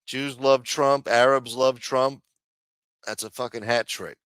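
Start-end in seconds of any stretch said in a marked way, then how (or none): 0.0-2.2 slow emphatic. Real, not acted. Emphatic point.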